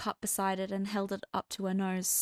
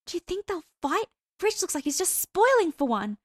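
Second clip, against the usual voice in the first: put-on high, bright-eyed girlish voice; a giddy party girl eager for a fight; excited gossiping girl; 10 semitones higher, 6 dB louder than usual. A narrator's reading. Girl gossiping to her friend at a party, high and eager.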